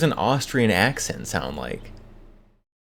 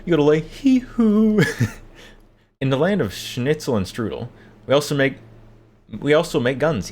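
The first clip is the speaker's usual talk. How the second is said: hammed-up Austrian yodeler, pitched high; exaggerated Austrian accent; 5 semitones higher, 3 dB louder than usual. Yodeler opening a gun video skit, exaggerated Austrian accent. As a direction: open on a loud high yodel, then keep up a mock Austrian accent. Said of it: "an exaggerated Austrian accent".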